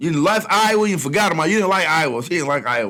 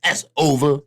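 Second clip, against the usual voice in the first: a hint of a menacing Russia; voicing Russia; 4 semitones higher, slower than usual. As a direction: gloat as Russia threatening the USA. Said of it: "Russia's like".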